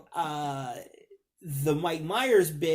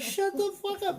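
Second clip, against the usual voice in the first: mock exasperation; 12 semitones higher, 5 dB quieter than usual. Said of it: "I'm like".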